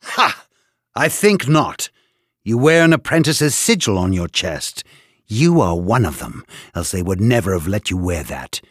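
barking scorn. Acted. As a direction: bark it out with scorn. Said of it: "A bark of laughter".

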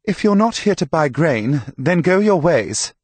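high, loud dismissive call. A narrator's reading. Herald to pilgrims below the wall, calling down loudly. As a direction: send them off from high up, loudly.

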